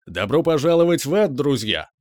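cheerful, hospitable greeting, called out; most welcoming voice. A narrator's reading. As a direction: welcome them warmly like a host. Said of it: "самым приветливым голосом". (самым приветливым голосом)

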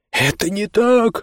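high, slow shouted protest; yelling. Acted. Liam yelling back at his brother, high. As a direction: cry it out in protest. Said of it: "заорал Лиам".

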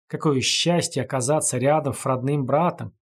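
gurgling through blood in the mouth; coughing up blood. Acted. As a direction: talk while choking on blood. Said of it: "захлёбываясь кровью, пробулькал он".

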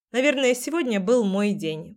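plain reading voice

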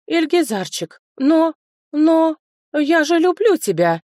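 a high, loud, hammed-up sobbing plea; breaking into sobs. Cousin begs the lord she loves, hammed-up sobbing. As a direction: fake a theatrical breakdown into tears. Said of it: "сорвалась на рыдание брюнетка".

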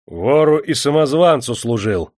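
loud, high angry accusation; officer's irate bellow; shouting threat. A narrator's reading. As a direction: threaten him, stretching out the final words. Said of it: "прикрикнул офицер".

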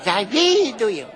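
slow, loud drawn-out chant; shouted cheer. Shown as a demonstration. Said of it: "Вот так".

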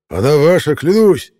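high, loud pleading oath; desperate swearing. Acted. Rollo swearing to the sniper, high and desperate. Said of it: "воскликнул Ролло".

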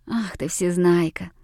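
usual speaking voice

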